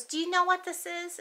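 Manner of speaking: lightly voiced kid showing off a coin; a hint of a proud child. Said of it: "She goes".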